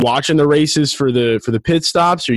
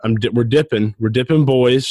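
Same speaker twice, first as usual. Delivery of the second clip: talking with tobacco in lip; mouth full of dip. Real, not acted. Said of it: "there is definitely a dip in my mouth".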